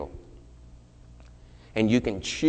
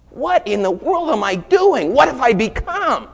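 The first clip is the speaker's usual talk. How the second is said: much higher and louder, slow and pleading; anguished cry; 12 semitones higher, 7 dB louder than usual. Retold or imitated. Friend horrified at herself, crying out loud and high. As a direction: cry it out in horror at yourself.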